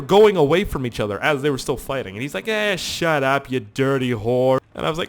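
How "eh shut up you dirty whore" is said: slow, drawn-out mock growling insult; imitated angry man. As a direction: drag out the angry put-down. Retold man still fighting.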